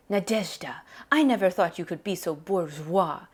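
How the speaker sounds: "bourgeois" with the weight on its final WA; reproachful father leaning on the end of "bourgeois"; stress on last syllable. A narrator's reading. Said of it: "He puts the emphasis on the last syllable".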